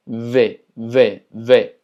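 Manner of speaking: V said with a buzzing lip-teeth v between f and v; V pressed hard, teeth on lip; forced Portuguese V. Shown as a demonstration. Teacher drilling the Portuguese V sound, forced buzz. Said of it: "es un poquito más forzada".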